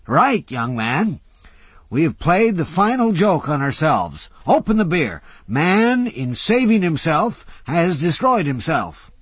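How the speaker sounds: put-on high, loud grand old man; a lightly theatrical old philosopher lecturing; old orator. A narrator's reading. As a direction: hold forth with gleeful doom. Old Jay's voice.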